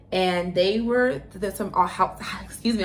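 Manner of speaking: stumbling over words; tripping over the words; tongue-tied. Real, not acted. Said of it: "I'm getting tongue-tied".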